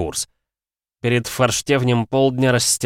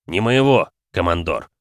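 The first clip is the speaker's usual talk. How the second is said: snappish; 3 dB louder than usual. Acted. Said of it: "в том же тоне ответил".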